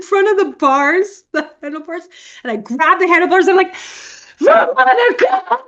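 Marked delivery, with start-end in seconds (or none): 4.4-5.6 high, drawn-out mock scream. Re-enacting a cinema outburst at Twilight, hammed-up scream. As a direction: wail the name loudly at high pitch. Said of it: "Just scream".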